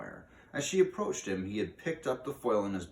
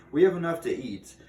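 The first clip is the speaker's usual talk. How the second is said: firm refusal; 9 semitones higher, 10 dB louder than usual. Acted. Mouse firmly declines the crow.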